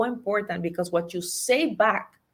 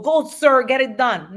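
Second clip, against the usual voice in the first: cheering himself on; 3 semitones higher, 6 dB louder than usual. Retold or imitated. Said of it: "it should sound like".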